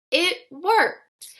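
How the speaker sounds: ordinary delivery, nothing marked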